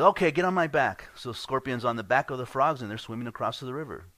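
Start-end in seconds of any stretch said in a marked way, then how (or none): 0.0-1.1 giving-in frog. Acted. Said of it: "He says".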